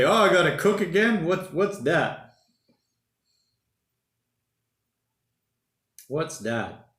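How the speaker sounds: high, loud mock complaint, petering out to a mutter; mock whine. Talking to viewers about cooking again, a mock whine. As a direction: whinge like a fed-up cook who has to do it again.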